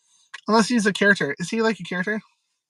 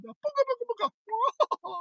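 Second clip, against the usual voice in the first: spooky booga; 14 semitones higher, 5 dB quieter, slower than usual. Retold or imitated. Spooky cartoon noise.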